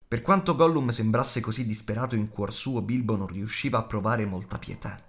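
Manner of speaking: usual speaking voice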